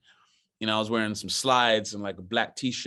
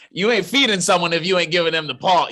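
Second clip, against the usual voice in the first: laughing; 8 semitones higher, 7 dB louder than usual. Real, not acted. Laughing punchline about being fed.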